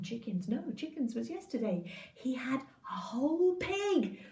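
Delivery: ordinary delivery, nothing marked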